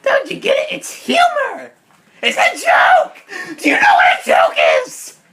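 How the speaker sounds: loud exasperated laughing shout. Acted. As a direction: yell it in disbelief, laughing. Exasperated over a failed pun.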